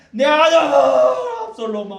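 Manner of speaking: slow, very high and loud wail of 아들; wailing king. Retold or imitated. David calling for his dead son, loud slow wailing. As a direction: cry out 아들 like a grieving father. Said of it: "또 부릅니다".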